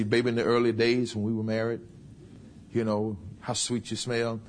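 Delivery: low and gentle, slowing at the end; tactful sweet talk. Acted. Wife recalling early marriage, low and tender. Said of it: "You gotta be very tactful".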